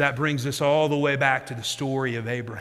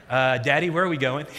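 hesitant, lightly imitated worried kid; a touch of mock nervousness; nervous child. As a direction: ask warily, as a daughter growing uneasy. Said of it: "she starts to get nervous".

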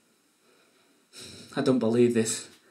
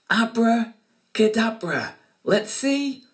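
put-on kids party magician; 3 semitones higher than usual. Magic show patter for kids.

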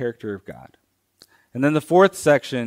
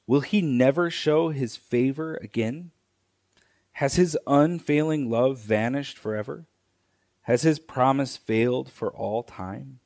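measured, unhurried reading of the psalm, pausing between lines; slow scripture reading. Shown as a demonstration. Pastor reading Psalm seventy-seven to the congregation, slow and deliberate. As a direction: read each line slowly and let it land. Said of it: "I'm gonna read it slowly".

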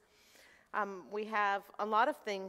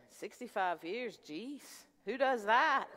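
embellished retelling of a friend; slower than usual. Retold or imitated. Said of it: "I embellished a little bit".

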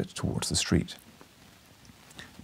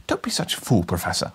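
put-on young man pleading; 3 semitones lower than usual. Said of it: "I cried".

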